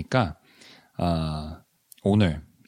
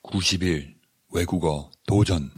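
echoing the title; echo effect; 3 semitones lower than usual. Pretend. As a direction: repeat it like a fading echo. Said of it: "메아리 효과".

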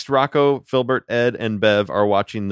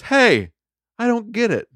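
high, loud dopey voice; dim cartoon voice; 12 semitones higher, 3 dB louder than usual. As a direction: play it dumb and confused. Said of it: "and he goes".

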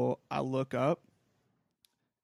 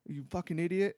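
retold yelling back; 5 semitones higher than usual. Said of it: "is yelling back".

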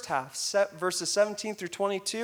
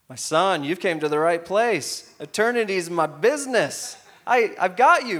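louder, rising mock reassurance; a grand hammed-up promise; 8 dB louder than usual. Imagined Jesus reply.

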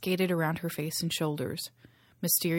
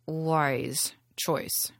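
growled. Acted. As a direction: growl it, unimpressed. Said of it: "she growled".

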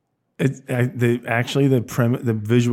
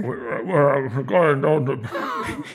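muffled villain voice through a mask; Bane voice; much slower than usual. Pretend. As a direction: talk like speaking through a face mask. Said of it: "Can you do the Bane voice?".

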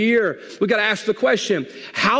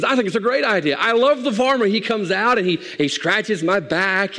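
higher-pitched, eager agreement; enthusiastic pig; 3 semitones higher than usual. Acted. Pig agreeing with the chicken about thanking the farmer, enthusiastic. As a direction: gush a little about the farmer.

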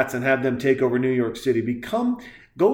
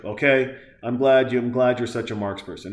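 dry, mock-approving sarcasm; sarcastic. Real, not acted. Mocking the arsonists with fake approval, sarcastic. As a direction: praise them in a way that plainly means the opposite. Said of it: "hear the sarcasm in my voice".

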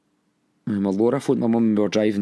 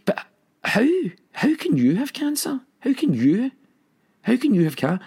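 high, repeated retold pleading question; distraught disbelief; 13 semitones higher than usual. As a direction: mimic a stunned friend, pitch leaping up. Retold shocked reaction to cancer news.

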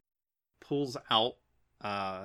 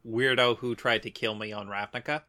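bright, louder mocking thanks; sarcastic retort; 6 dB louder than usual. Ruse snarks at the Vedalken who tried to kill her, mocking. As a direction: toss the thanks back with a sneer.

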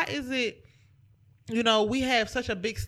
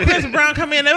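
laughing through the words; giggling while talking; 5 semitones higher, 9 dB louder than usual. Real, not acted. Laughing while describing sitcom.

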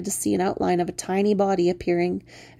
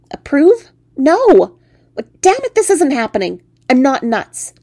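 much higher, much louder, indignant; outraged protest; 5 semitones higher, 8 dB louder than usual. Acted. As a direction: blow up at the frog. Narrator protests at frog's nickname.

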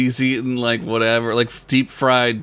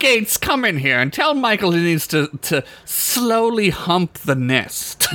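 lightly imitated producer, pitched higher; Brandon Braga; 4 semitones higher than usual. Producer summoning Gates to instruct Michael, raised imitation.

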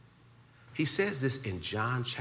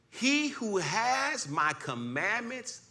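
higher, louder, slow preaching build; preaching scripture; 10 semitones higher, 6 dB louder, slower than usual. Acted. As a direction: lift the verse up to the congregation. Preaching scripture at rising force.

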